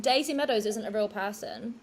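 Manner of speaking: hushed, breathy reveal of a plot twist; conspiratorial whisper. Acted. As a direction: whisper it like a big secret.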